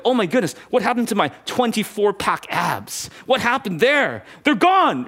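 playfully panicked over lost abs; mock dismay. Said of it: "Or like".

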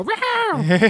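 high mock cat meow. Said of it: "you hear a cat go".

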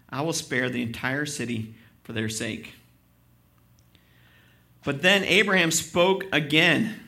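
loud, driving preacher's reading of the passage; fervent scripture reading. Acted. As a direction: read Abraham's plea with full conviction. Pastor reads scripture aloud.

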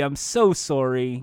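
put-on light Canadian accent on "sorry"; Canadian-accented game show apology. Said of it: "saying sorry with the Canadian accent".

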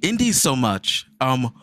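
high silly puppet voice; squeaky puppet character. Pretend. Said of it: "kicking in my Puppet voice".

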